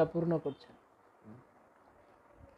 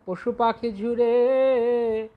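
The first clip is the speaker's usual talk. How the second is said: reciting verse; much slower than usual. Retold or imitated. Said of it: "যেমন লোচন দাস ঠাকুর বলছেন".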